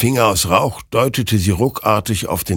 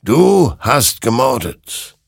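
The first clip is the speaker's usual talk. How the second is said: slow, loud, raised accusation; stern verdict from the creature; condemning; 7 semitones higher, 5 dB louder, slower than usual. A narrator's reading. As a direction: drive the charge home word by word. Creature condemns Hector in story.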